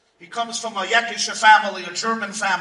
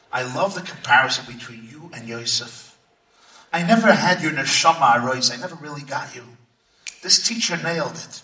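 lower, gentle father's voice; tender father; 6 semitones lower than usual. Retold or imitated. Father comforts his son after school, lower and tender. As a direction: soothe the sobbing boy.

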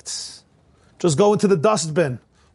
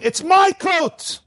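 slow, high mock yell of the father; father's hammed-up slow cry; retold yell; 8 semitones higher, slower than usual. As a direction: drag it out like a stubborn father. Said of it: "The father was screaming".

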